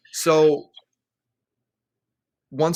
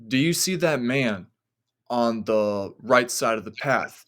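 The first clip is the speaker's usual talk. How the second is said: put-on measured, suspenseful quoting of the girlfriend; retold uneasy question. Girlfriend's eerie question, told slowly.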